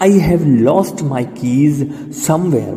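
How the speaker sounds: very slow, word by word; teacher models it slowly before the class repeats; slow model sentence. Shown as a demonstration. Slow drilled sentence for students. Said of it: "બોલો".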